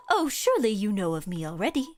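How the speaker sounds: grand storybook character, lightly put on; lofty, poetic proclamation; game character declaiming. Voices a game character's lines.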